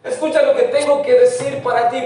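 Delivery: a touch of pleading call, English then Spanish; God calling persistently. Acted. God calling a distracted listener, gently insistent. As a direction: urge them to listen. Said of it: "te viene diciendo".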